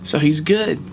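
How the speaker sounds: real tears of relief pushing through; emotional relief. Real, not acted. A teacher relieved his former student survived, tearful. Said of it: "I'm getting emotional".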